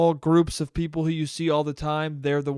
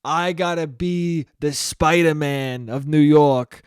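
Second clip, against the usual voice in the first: Cuomo impression; 2 semitones lower than usual. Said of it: "Cuomo went from".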